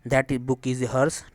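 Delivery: very slow, each word spaced out; slow dictation. Shown as a demonstration. Teacher reading an example sentence to students, very slow. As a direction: read the example word by word for the class.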